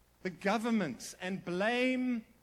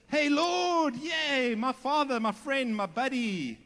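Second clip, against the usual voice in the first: high, loud, gushing buddy greeting that fades down; mock chummy gushing; 4 semitones higher, 6 dB louder, slower than usual. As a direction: ham up a too-casual best-friend hello to God. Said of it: "he doesn't go like this".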